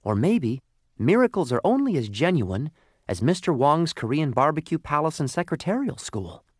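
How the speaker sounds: lightly voiced coal, musing forlornly; a touch of gloomy talking object; despondent lump of coal. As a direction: muse hopelessly in a little coal voice.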